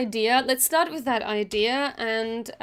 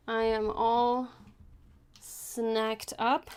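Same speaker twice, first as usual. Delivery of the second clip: eating while talking; crunching chips. Real, not acted. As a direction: talk through a crunchy bite. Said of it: "Sorry for the crunchy sounds".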